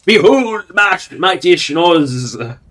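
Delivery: high, loud heraldic announcement, drawn out at the end; mock-grand proclamation. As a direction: proclaim it with hammed-up pomp, stretching the last words. Mock unveiling of ridiculous armor.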